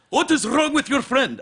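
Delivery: high, loud, slow indignant manager; angry hotel manager. Retold or imitated. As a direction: demand it slowly, outraged. Manager complains.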